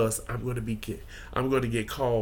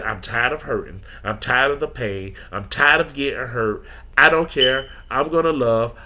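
building, louder affirmation; rising declaration; 4 dB louder than usual. Retold or imitated. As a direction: declare it, getting louder line by line. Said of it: "as my good life coach sister, best friend say".

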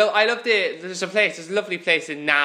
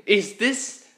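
halting, higher-pitched puzzlement; mock bewildered question; 5 semitones higher, slower than usual. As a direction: act baffled, with a rising last word. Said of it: "It's like".

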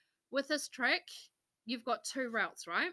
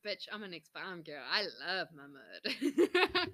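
put-on cocky farm girl; 4 semitones lower, slower than usual. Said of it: "And yet I'm like".

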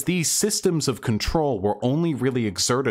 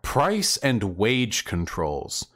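mocking slow repeat; much slower than usual. Slowly repeats opponent's phrase mockingly.

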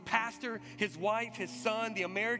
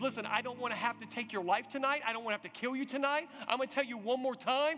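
louder, higher hard warning from an armed officer; officer threatening the congregation, louder and rising; menacing threat; 5 semitones higher, 3 dB louder than usual. Retold or imitated. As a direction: bark the final warning, raising it line by line.

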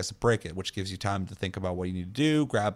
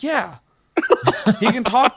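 high, laughing through the words; 13 semitones higher, 8 dB louder, slower than usual. Retold or imitated. Laughing at friend's blunder.

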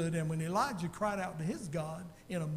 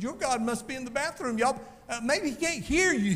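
higher, teasing jeer at the false prophets; mocking taunt; 4 semitones higher than usual. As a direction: taunt them like a smug prophet. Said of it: "making fun of them and mocking them".

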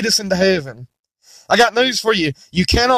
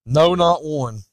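preaching scripture. Acted. Preacher reading Romans to the congregation, solemn. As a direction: intone the verses with weight.

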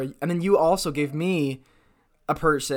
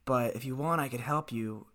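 John Travolta; 3 semitones lower, 8 dB quieter than usual. Acted. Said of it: "John Travolta if he just got back from a trip to Jamaica".

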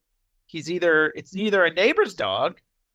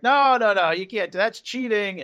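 mock yelling; 3 semitones higher, 4 dB louder than usual. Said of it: "they're yelling at each other".

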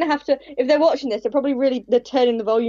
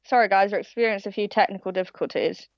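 mock professional announcer; 2 semitones lower than usual. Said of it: "Look at me sounding all professional".

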